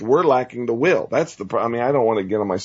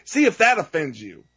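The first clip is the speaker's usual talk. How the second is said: getting angry; 4 semitones higher than usual. Real, not acted. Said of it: "I'm getting angry".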